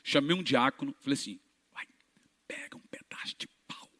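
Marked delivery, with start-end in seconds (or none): 1.7-3.9 secret whisper to the deacon. Retold or imitated. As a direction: lean in and whisper it. Cochicha ao diácono. (sussurro ao diácono)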